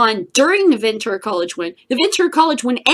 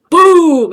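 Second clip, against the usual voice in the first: loud boom imitation; one loud fireworks boom; mock explosion boom; 9 semitones higher, 13 dB louder than usual. Showing how big fireworks were.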